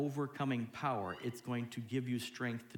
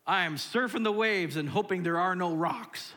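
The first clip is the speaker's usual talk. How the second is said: high, loud nervous hoping; acted anxious outcry; 7 semitones higher, 7 dB louder than usual. Congregant surfing the waves hoping for no rocks, anxious outcry. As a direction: call out as if riding a wave.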